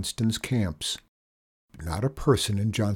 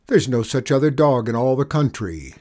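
angry; 3 semitones higher, 6 dB louder than usual. Acted. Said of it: "flared up angrily".

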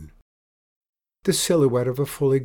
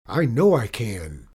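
put-on louder, determined boy's retort; through clenched teeth; 6 dB louder than usual. A narrator's reading. Alfie answers the pirate mid-duel, through clenched teeth. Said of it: "Alfie said through clenched teeth".

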